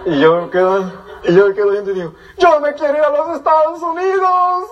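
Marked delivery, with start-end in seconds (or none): 2.4-4.6 eager declaration. Retold or imitated. Boy seeing rich cousin, deciding.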